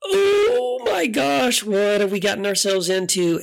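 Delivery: high, breathy gasp of fear that drops into a worried question; as if the hair on your neck just stood up; frightened gasp. Retold or imitated. Friend hearing a growl in the dark room, frightened gasp.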